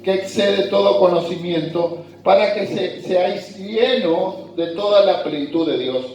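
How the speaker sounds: measured, deliberate Bible reading to the congregation; scripture reading. Acted. Pastor reading Ephesians to his congregation, scripture reading voice. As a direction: read the verses out as holy text. Reads Ephesians passage aloud.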